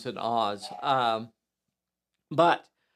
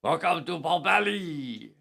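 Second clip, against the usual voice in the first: put-on, muddled Irish accent; bad Irish accent. Host confusing his accents, mock Irish welcome. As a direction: greet in a badly faked Irish accent. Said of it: "That's my Irish accent".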